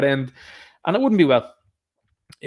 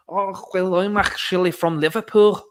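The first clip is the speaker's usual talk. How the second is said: higher put-on Liverpool voice; mock Liverpudlian; 4 semitones higher than usual. Host mocking a fighter from Liverpool explaining herself, mock Liverpudlian. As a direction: mimic a Liverpudlian making excuses. Mimicking Molly McCann's excuse.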